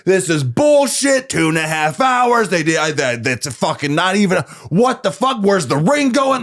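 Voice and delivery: retold fury, hammed up and high; irate rant. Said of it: "I am irate".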